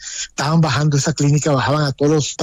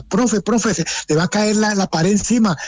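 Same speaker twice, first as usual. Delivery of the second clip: retold yell; 6 semitones higher than usual. Surgeon calls to the professor during the quake, raised mock yell. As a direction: relive the doctor calling out in alarm. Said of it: "el doctor me gritaba".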